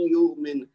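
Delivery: یؤمن recited with the hamza softened to a long yaa sound; slow recited یؤمن, ending on a falling tone; تجوید recitation of یؤمن; Quranic recitation. Shown as a demonstration. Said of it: "یا کی آواز پڑھیں گے".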